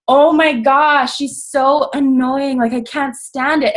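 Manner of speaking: drawn-out, exasperated mock complaint; retelling being upset. Jealous friend griping about her coach, annoyed. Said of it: "you know why I was upset at her".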